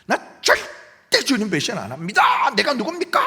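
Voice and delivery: proud vow of a loyal disciple; confident boast. Retold or imitated. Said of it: "그랬어요". (자신만만하게 장담하듯)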